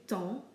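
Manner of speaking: TEMPS as a nasal "ton", no P or S; silent P and S. Shown as a demonstration. Teacher simplifying for learners, silent ending. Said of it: "we don't pronounce the P or the S".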